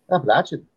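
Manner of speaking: Apple-latch-un, stressed; Appalachian with a short a. Shown as a demonstration. Showing newcomers how locals say Appalachian. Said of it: "Say it with an Irish accent or a Scottish accent".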